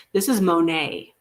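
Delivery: Monet said carefully as moh-NAY; Monet like the jewelry. Shown as a demonstration. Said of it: "as in the jewelry, not the artist".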